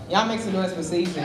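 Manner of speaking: host calling for applause; rallying the room for the poet; hype call-out. Real, not acted. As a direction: shout it out to get the crowd cheering. Host hyping crowd.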